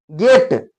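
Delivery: गेट with a pure long e; Indian English vowel. Shown as a demonstration. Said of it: "ऐसे नहीं कहते हैं".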